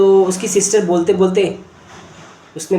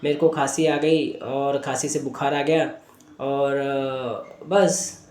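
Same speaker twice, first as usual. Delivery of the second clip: low, softer reluctant denial; evasive child; 4 semitones lower, 6 dB quieter than usual. Retold or imitated. Boy denying anyone said anything to him, subdued and evasive. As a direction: brush the question off quietly, haltingly. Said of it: "बार बार physical symptom बता रहा है".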